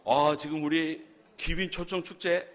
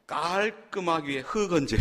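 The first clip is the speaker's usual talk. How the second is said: slow, higher Jeolla dialect punchline; 4 semitones higher than usual. Shown as a demonstration. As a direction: draw it out in Jeolla dialect, about to laugh. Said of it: "전라도 사투리로 어떻게 되죠". (전라도 사투리로 느리고 구수하게)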